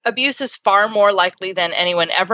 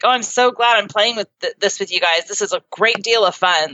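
mock sarcastic. Parent sniping at the boys over a lost game of Yahtzee, mildly sarcastic. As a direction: retell a sarcastic jab with mild fake enthusiasm. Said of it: "I started with a sarcastic comment like".

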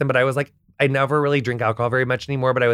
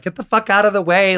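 mock annoyed yell, higher pitched; irritated passersby; 7 semitones higher, 4 dB louder than usual. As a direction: imitate strangers telling the crew to move. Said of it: "people were like".

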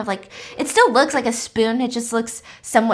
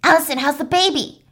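eerie singsong, a bit higher; creepy patient voice; 5 semitones higher, 3 dB louder than usual. Retold or imitated. Patient calling a stranger Allison, eerie singsong. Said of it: "looking at her like".

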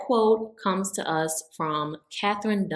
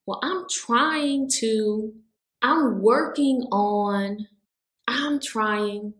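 slow, hesitant, higher "Well, I'm trying"; 3 semitones higher, slower than usual. Retold or imitated. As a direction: drag it out unsure, higher. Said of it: "constantly saying".

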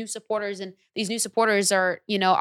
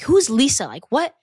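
incredulous; 5 semitones higher, 5 dB louder than usual. Retold or imitated. Retells disbelief at comment.

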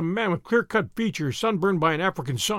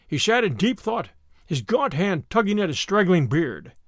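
ordinary delivery

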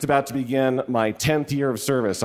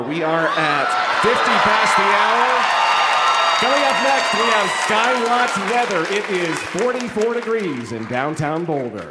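radio DJ voice; 4 semitones higher than usual. Shown as a demonstration. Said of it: "Can you do a little D J ing".

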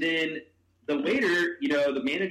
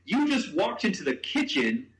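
high quote of the waiter, broken by laughter; retelling the waiter's words while cracking up; laughing through a quote; 9 semitones higher than usual. Retold or imitated. Telling friend about the waiter, laughing through the quote.

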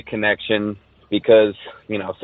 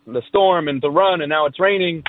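higher-pitched retold alarm; a little freaked out; 9 semitones higher than usual. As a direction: imitate friends getting mildly spooked, voice raised high. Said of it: "we get a little freaked out".

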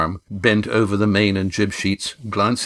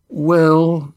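hesitant start; 8 semitones higher, 5 dB louder than usual. A narrator's reading. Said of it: "Scarm began".

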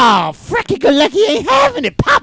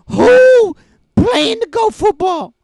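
shouted quote; 5 semitones higher, 4 dB louder, slower than usual. Retold or imitated. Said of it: "we said".

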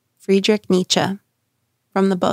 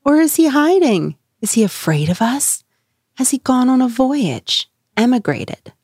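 jeering yell; 6 semitones higher than usual. A narrator's reading. Crowd jeering at the madman, higher mocking yells. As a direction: jeer at him, pitched up and pushing. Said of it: "Thus they yelled and laughed".

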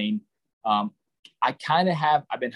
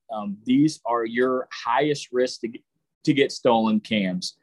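talking through hiccups; hiccuping between words. Real, not acted. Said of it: "I got the hiccups".

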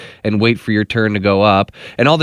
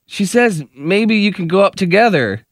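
higher mock relay voice; relaying stranger; 6 semitones higher than usual. Stranger in the middle relaying to husband, higher mock voice. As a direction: pass the message along politely. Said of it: "the lady in between goes".

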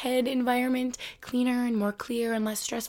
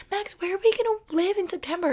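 anxious self; 10 semitones higher than usual. Retold or imitated. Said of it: "I'm like".

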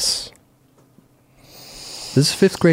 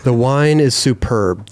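slow example sentence; slower than usual. Shown as a demonstration. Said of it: "Do you want it in a sentence?".

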